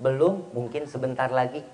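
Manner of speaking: soft, low, accommodating answer; reply gently and quietly; mild husband's reply. Acted. Husband answering his caring wife, softly and mildly. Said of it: "Jawabannya seorang suami".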